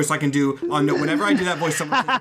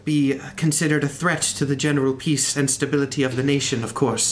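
calm tempered voice. Acted. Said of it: "a much more calm, much more tempered voice".

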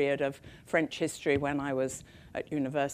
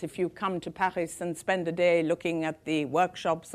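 put-on lightly French-accented CEO; a hint of a French accent. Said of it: "in wonderful French accent".

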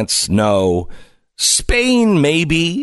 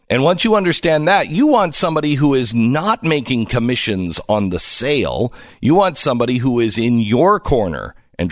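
persuasive radio sponsor read with punched key words. Acted. Host sells listeners on a mortgage company, ad read. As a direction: sell it like a radio host's endorsement.

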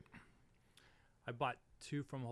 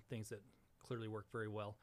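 deadpan, tongue-in-cheek understatement; dry sarcasm. Real, not acted. Guest mocking get-rich-quick boot camps, dry sarcasm. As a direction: say it dryly, as if sincere. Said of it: "That was sarcasm".

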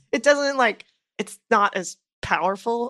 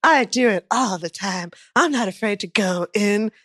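emphatic mock bravado, building louder; fearless type; 4 dB louder than usual. Host acting out a person who faces their fears, emphatic bravado. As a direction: proclaim it, punching each "I am". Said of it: "a person who's like".

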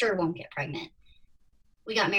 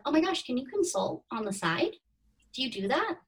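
retold eager request; 6 semitones higher than usual. Quoting eager would-be clients asking.

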